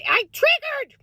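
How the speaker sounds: high, rueful exclamation; a pained Minnesota-mom yelp; dismayed cry. Real, not acted. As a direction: blurt out what went wrong. Dismayed outburst, repeated.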